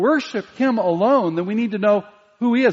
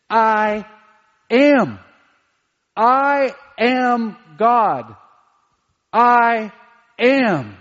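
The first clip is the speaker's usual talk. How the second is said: louder, slow ringing I am God; preaching at full force; proclaiming; 3 semitones higher, 5 dB louder, much slower than usual. Acted. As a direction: declare the name with full force. Preacher proclaims God's name.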